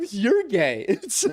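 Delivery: high, squeaky mock disbelief through laughs; hammed-up indignant squeal at a friend's teasing; mock shocked outrage. Mock outrage at gay friend's joke.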